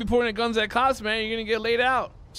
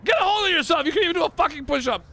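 barking drill sergeant; 5 semitones higher, faster than usual. Acted.

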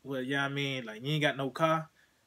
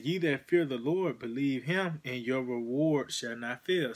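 a louder, measured scripture recitation; scripture reading; 3 dB louder than usual. Acted. Preacher quoting a verse to his listener, raised and measured. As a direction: proclaim the verse from the pulpit.

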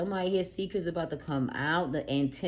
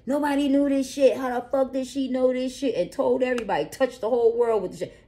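much higher and louder, stunned; shocked disbelief; 9 semitones higher, 7 dB louder than usual. Acted. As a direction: play the crowd gasping over the secret. Voicing people's shock at secret.

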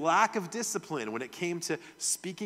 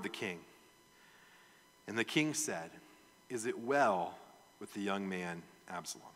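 measured Bible reading voice; scripture reading; 3 dB louder than usual. Acted. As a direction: read the passage aloud to the church. Reads the Bible passage aloud.

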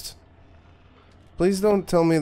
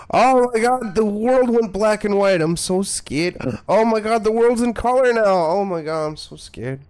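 high-pitched, over-the-top fake fright; mock panic; 6 semitones higher, 3 dB louder than usual. Gamer mocking the world changing colour, hammed-up panic. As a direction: wail in badly faked alarm, dropping off at the end.

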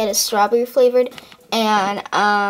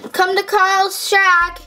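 calling out; 7 semitones higher, 3 dB louder, much slower than usual. Acted. Calling out ad for shack.

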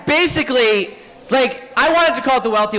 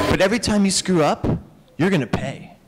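menacing Hera. Retold or imitated. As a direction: hiss a sweet promise of punishment. Hera accepting, threatening Zeus.

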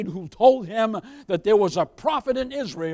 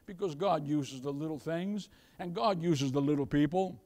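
soft; 7 semitones lower, 9 dB quieter than usual. Real, not acted. Sudden soft drop.

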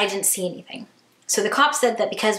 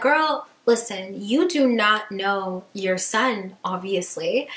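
slow sassy put-down; slower than usual. Retold or imitated. Telling off the mom.

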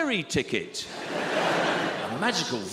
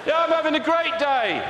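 sarcastic; 12 semitones higher, 6 dB louder than usual. Acted. Sarcastic with hawk.

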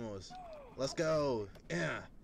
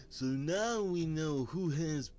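excited cartoon sidekick; 9 semitones higher, 4 dB louder than usual. Sidekick praising the hero.

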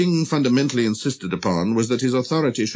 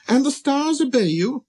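high, light, wondering question; marvelling little prince. Acted. Prince asking whether stars obey the king, high and amazed. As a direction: ask in small-voiced amazement.

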